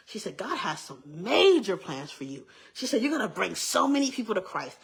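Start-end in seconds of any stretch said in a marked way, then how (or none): 0.3-2.5 emphatic, stretched retold proclamation; slow down and lean into "major"; excited prophecy. Church lady prophesying over young girl, excited prophecy. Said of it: "She was excited". 3.0-4.8 emphatic, retold proclamation; excited prophecy. Church lady prophesying over young girl, excited prophecy. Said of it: "She was excited".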